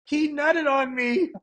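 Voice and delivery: mock scream. Podcaster retelling how she chased him over stuff, mock screaming. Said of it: "she's screaming through the store".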